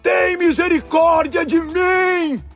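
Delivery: very high, slow stretched-out plea; shouting even harder. A narrator's reading. Blind beggar defies those silencing him, long desperate shout. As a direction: wail it out slowly at full shout. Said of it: "ele gritava ainda mais alto".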